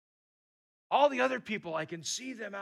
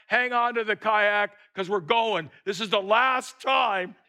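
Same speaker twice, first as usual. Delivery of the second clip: guide's command; 3 semitones higher, 6 dB louder than usual. Retold or imitated. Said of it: "And he says".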